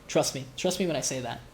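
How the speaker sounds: rough, under-the-weather sick voice. Real, not acted. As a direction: talk through a sick throat. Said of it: "I sound a lot worse than I am".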